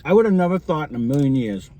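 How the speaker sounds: talking through a mouthful of food; chewing while talking, words round a bite; mouth full. Real, not acted. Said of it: "Sorry, I'm talking with my mouth full".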